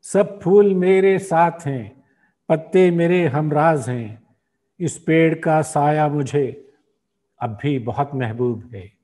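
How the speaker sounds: measured Urdu verse, line by line with pauses; poem recitation. Acted. Host reciting a poet's symbolic nazm, measured recitation. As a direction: recite the nazm slowly and rhythmically.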